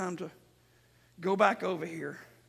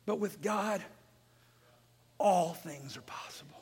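hushed preaching. Real, not acted. Preacher answers the impossible with God, hushed preaching. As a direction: let the promise land in a breathy hush. Sudden hush after loud preaching.

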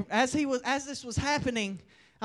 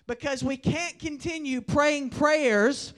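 emphatic preacher with stretched key words; measured, punchy sermon exhortation; forceful preaching; 5 dB louder than usual. Real, not acted. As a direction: drive the warning home to the congregation.

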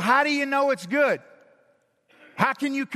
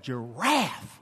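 mildly puzzled Adam; 10 semitones lower, 4 dB quieter than usual. Retold or imitated. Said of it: "he's like".

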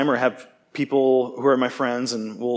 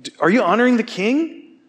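much higher gentle appealing voice of a friend; imitating friend gently; 9 semitones higher, 4 dB louder than usual. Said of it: "next one, like".

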